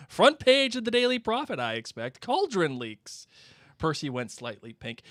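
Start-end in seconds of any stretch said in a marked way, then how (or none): 0.1-3.3 high sneering mock headline; mock Percy's report; sarcastic Ron.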